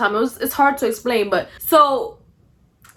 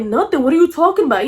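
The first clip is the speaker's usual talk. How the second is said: mildly indignant imitated denial; acting angry; 3 semitones higher, faster than usual. Boyfriend denying anything with Cece, acting mildly angry. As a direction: retell it with defensive irritation, lifting at the end. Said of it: "he starts a-, acting, like, angry".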